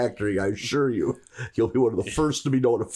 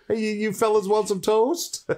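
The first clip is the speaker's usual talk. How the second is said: toaster robot voice; 7 semitones higher than usual. Pretend.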